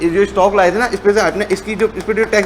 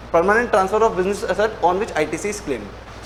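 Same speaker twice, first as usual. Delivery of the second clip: slow dictation; much slower than usual. Shown as a demonstration. Teacher dictating the line again.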